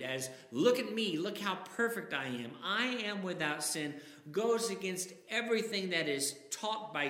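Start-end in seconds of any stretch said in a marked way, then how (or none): 0.5-4.0 hint of a preening braggart; pompous boast. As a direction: show off, lightly mocking the egotist. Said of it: "That kind of pompous or egotistical attitude".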